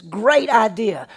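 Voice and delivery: slow and loud, savoring each word; a loud, slow king's "Great idea"; drawn-out approval. Acted. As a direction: stretch it out, milking the moment. King slowly savoring the idea.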